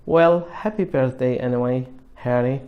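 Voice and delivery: small, flat voice; flat little voice. Acted. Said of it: "in a flat little voice".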